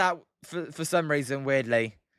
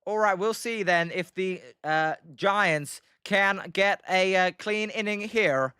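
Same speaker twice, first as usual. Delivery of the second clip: put-on American accent. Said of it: "Do the inning in an American accent".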